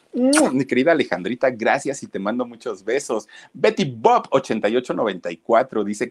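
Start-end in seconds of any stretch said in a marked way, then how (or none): 0.1-0.5 loud, very high smacking kiss sound; loud high air kiss to the viewer; blown kiss. Real, not acted. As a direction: blow a big kiss.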